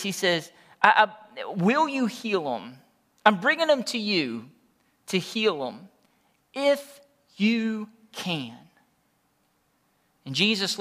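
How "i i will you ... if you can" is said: begging father. Retold or imitated. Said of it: "he's begging Jesus".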